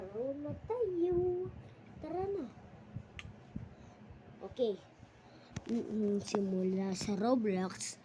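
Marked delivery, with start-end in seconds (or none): 0.0-2.5 excited. Real, not acted. Rallying to start playing.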